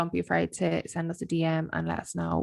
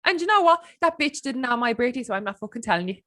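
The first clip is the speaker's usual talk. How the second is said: mock sweet witness; 8 semitones higher than usual. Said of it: "they're like".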